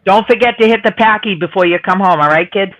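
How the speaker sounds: put-on thick Boston accent. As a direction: talk like a Boston local. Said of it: "the Boston accent".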